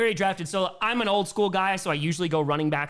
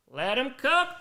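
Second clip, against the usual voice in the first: hyped; 9 semitones higher, 4 dB louder, slower than usual. Shown as a demonstration. Repeated, higher second take.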